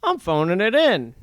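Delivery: mocking an actor phoning it in; mock Kurt Russell Santa. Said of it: "He's like".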